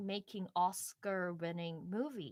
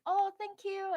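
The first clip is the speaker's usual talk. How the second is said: gracious award winner; 11 semitones higher, 7 dB louder than usual. Pretend. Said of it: "picture myself being like".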